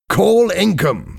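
high, stretched-out call; urgent order. A narrator's reading. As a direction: call for help up high, drawing it out. Trapped diver orders help.

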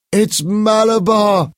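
high, slow, ringing shout; powerful strange shout. A narrator's reading. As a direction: cry out as if possessed. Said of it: "Paul shouted in a powerful, strange voice".

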